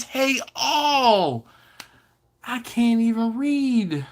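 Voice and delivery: laughing while reading. Real, not acted.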